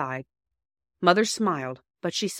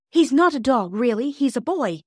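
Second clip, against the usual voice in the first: put-on high, loud, excited child's protest; choked, half-laughing; 7 semitones higher, 6 dB louder than usual. Bobby correcting Mother's mistake, mock choked excitement. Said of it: "between laughing and choking".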